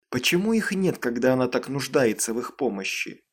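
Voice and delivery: ordinary delivery, nothing marked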